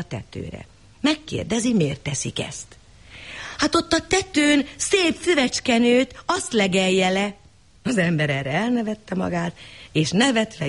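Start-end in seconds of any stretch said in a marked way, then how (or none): 3.6-7.3 high, slow and naive; simple village woman. Acted. Village woman to the stranger, slow and naive. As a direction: explain it slowly like a simpleton. Foolish women explain the cow.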